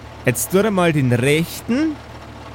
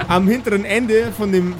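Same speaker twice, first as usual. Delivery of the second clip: laughing through words; 4 semitones higher than usual. Real, not acted. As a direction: still giggling while talking. GM still laughing while narrating.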